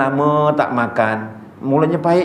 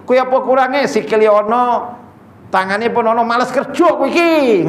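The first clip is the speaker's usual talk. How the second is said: grumbling in Javanese; 2 semitones higher than usual. Pretend. Preacher mocks his own stingy answer to a beggar, grumbling in Javanese. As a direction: huff in Javanese about lazy beggars. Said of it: "Kalau saya".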